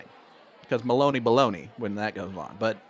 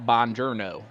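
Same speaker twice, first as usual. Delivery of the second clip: Buongiorno in a heavy American drawl, bahn-jer-no; the clueless American Italian from the movie; Brad Pitt Buongiorno; 4 dB louder than usual. Retold or imitated. Commentator showing a co-host how the movie says Buongiorno. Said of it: "You gotta say it like Brad Pitt does".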